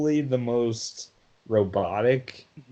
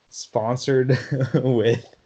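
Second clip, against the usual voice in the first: laughing; slower than usual. Real, not acted. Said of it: "I can't even keep a straight face".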